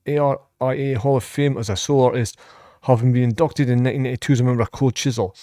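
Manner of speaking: brisk read-out of a biography; reading aloud. Real, not acted. Reactor reading a singer's career facts to viewers, evenly read out. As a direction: recite the facts evenly off the page.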